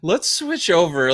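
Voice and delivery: high, loud slow announcer boom; monster truck announcer. Retold or imitated. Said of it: "me in that voice".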